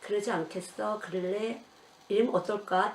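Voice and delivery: put-on soft, coaxing questions to a child; gentle coaxing. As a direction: ask gently, never pushing. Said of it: "늘 톤을 갖다가". (부드럽게 달래듯 묻는 말투)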